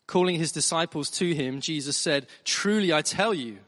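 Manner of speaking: measured, deliberate Bible reading; formal reading aloud with weighted emphasis; scripture reading. Acted. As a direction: read it out clearly to a congregation, phrase by phrase.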